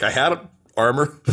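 same hero, now with wrecked armor; half-hearted echo of a battle boast; deflated boast. Acted. Same line after armor is wrecked.

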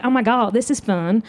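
mom's Southern accent, lightly put on; a hint of Southern delight. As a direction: say it like a tickled Southern mother. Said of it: "she's Southern, so she was like".

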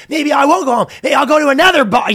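high-pitched mock tantrum; retold tantrum. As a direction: imitate an ex being contrary. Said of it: "having a big tantrum".

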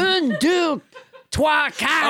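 counting in a hammed-up French accent; French Trump. French Trump proves himself by counting, mock French accent. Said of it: "your extremely realistic accent".

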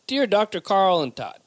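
light Chicago accent on the greeting; a first stab at Chicago. Shown as a demonstration. Host trying out a Chicago accent for listeners. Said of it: "that was almost my, uh, my Chicago accent".

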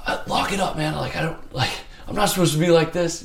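high, strained tearful plea; retold crying. Telling the psych he's not supposed to be like this, high tearful plea. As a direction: choke it out like you're fighting tears.

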